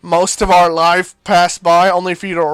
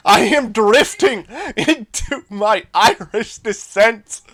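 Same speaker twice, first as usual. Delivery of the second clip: put-on slow, slipping into an Irish accent; 2 semitones higher, slower than usual. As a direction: drift into a stage Irish accent. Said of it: "Why am I suddenly dripping into Irish?".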